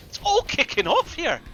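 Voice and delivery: all-out hype over a sudden team fight; excited shout. Real, not acted. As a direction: yell it as the fight erupts. Caster repeats as fight begins.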